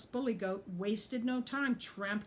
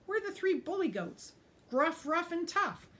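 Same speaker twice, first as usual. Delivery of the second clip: much higher, louder proud boast; 10 semitones higher, 5 dB louder than usual. Acted. Tough brags to his brothers, high loud boast. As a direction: show off each name loudly.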